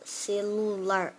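"Celular" drawn out slowly, weight on "lu"; stress on LU. Shown as a demonstration. Teacher showing the stronger syllable, slow "Celular" with stress on "lu". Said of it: "o lu é emitido com mais força".

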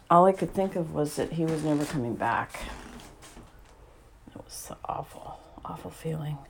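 real emotion, sinking into a near-whisper; halting and hushed, with long pauses as feeling wells up; choked up. Real, not acted. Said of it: "I'm getting all choked up".

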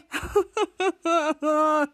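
pulsing fake boo-hoo; mock sobbing. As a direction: imitate monsters breaking into tears. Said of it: "start to cry".

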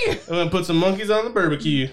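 comic Southern twang, rattled off; Southern accent. Acted. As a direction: put on an eager Southern accent. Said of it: "I don't know why they got Southern".

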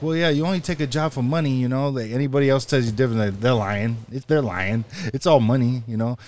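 lightly voiced New York job candidate; a hint of New York accent, mimicked; imitating New York accent. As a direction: imitate a New Yorker insisting on his point. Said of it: "that's how he talked".

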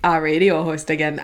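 mock your own Midwestern slip a little; Midwestern accent. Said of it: "I sounded so Midwestern when I said that".

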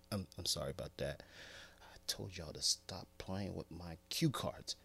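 soft, low, quick apology; embarrassed apology. Real, not acted. Host apologizing for prank cue card, soft embarrassed. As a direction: mumble a sheepish sorry. Embarrassed aside after blunder.

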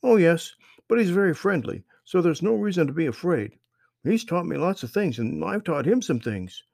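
put-on high, loud friendly boy; young boy voice. A narrator's reading. Strange boy greets the lost children, high friendly voice. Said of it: "replied Marvin".

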